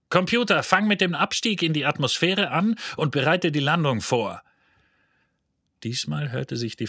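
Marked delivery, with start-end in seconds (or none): 0.1-4.4 loud command. A narrator's reading. Zaphod orders computer loudly.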